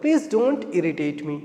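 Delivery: very slow, every word separate; teacher giving the English version slowly; slow model sentence. Shown as a demonstration. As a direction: drag it out for students to copy. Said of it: "please मुझे परेशान मत करो".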